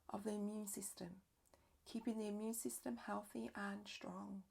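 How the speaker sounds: calm yoga nidra guidance with long pauses; unhurried, measured relaxation-teacher voice; guided meditation. Real, not acted. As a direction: guide them gently inward, leaving space between phrases.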